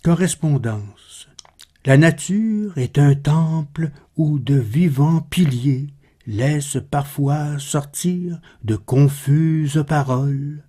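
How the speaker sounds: measured, slightly subdued poem reading; poetry recitation. Acted. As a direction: recite the verse with pauses between phrases. Reads Baudelaire's poem aloud.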